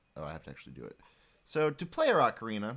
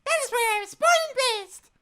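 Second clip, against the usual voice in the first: very high, loud puppet falsetto; piercing cartoon voice at full volume; Elmo; 8 dB louder than usual. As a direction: proclaim it all in a squeaky puppet shriek. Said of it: "Oh, you meant Elmo?".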